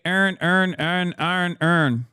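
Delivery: attempted Baltimore accent on "earn". Shown as a demonstration. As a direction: try a Baltimore accent, word by word. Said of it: "Do your best Baltimore accent".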